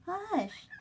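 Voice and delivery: high, sharp hush at the bird; high playful hush to a bird; hushing pet. Real, not acted.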